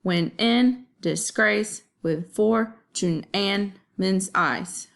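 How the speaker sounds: slow iambic reading, every second syllable stressed; slow metrical scansion of the line; ba-bum rhythm. Shown as a demonstration. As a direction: read "When in disgrace with fortune and men's eyes" as da-DUM da-DUM, slowly. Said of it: "it makes that ba-bum sound".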